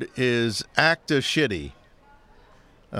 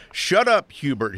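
mild yell; 3 semitones higher, 3 dB louder than usual. Acted. Wife yelling at Hubert from the kitchen, mild yell. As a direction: call it out like a half-yell from another room. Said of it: "his wife yelled from the kitchen".

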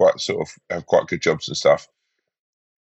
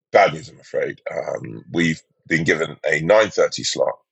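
pilot announcement; 5 semitones lower than usual. Retold or imitated. Captain's announcement voiced.

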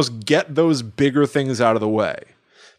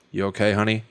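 gentle concern; 4 semitones lower, 3 dB quieter, faster than usual. Retold or imitated. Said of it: "go like".

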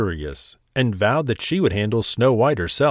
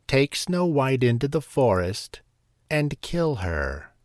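commanding queen; 3 semitones higher than usual. Acted. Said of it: "she commanded".

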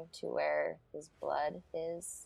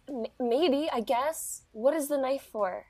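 higher, faltering and unsure; nervous hesitant Ivy; 9 semitones higher, 7 dB louder than usual. Acted. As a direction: stammer it out, scared of the answer. Ivy hesitant, facing a knife request.

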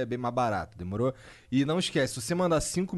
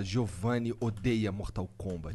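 clickbait video narrator; 7 semitones lower, 5 dB quieter, slower than usual. Pretend. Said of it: "eu vou falar".

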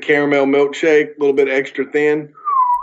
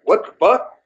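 shocked outrage; 6 semitones higher than usual. Retold or imitated. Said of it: "I'm like".

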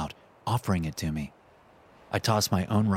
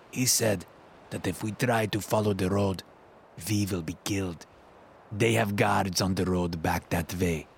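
lightly voiced older Russian man, serious; Lev, Russian accent. Lev warns Max about the road, in a light Russian accent. Lev explains the soldier's words.

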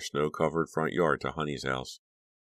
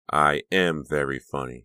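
insistent emphasis on "am", falling at the end; 4 dB louder than usual. A narrator's reading. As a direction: stress on "am", firmly contradicting. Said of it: "he insisted".

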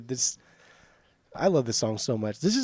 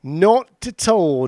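drawn-out emphatic denial; 5 semitones higher, 8 dB louder, much slower than usual. Real, not acted. Exaggerated denial to friend.

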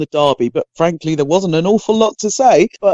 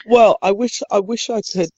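croaky voice; 4 semitones higher than usual. Real, not acted. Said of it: "blame my croaky voice".

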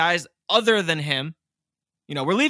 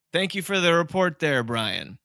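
news anchor voice. Pretend. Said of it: "I wanted to go all news anchor voice".

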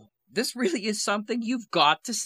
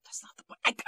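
whispering; 4 dB quieter than usual. Acted. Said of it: "Why are we whispering?".

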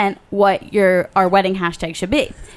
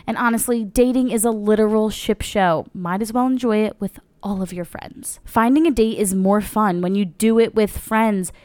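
ad read. Acted. Ad read closing.

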